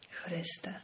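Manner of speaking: weary, barely voiced sigh of a word; sudden weariness. Henry suddenly worn out, whispering wearily. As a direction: let the fight drain out of you. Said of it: "powiedział z nagłym zmęczeniem".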